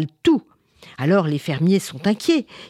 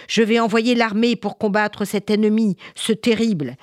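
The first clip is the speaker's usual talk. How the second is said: raised, resolute royal anger; angry king; 4 semitones higher than usual. Acted. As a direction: declare war like an indignant king. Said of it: "rentra alors dans une colère noire".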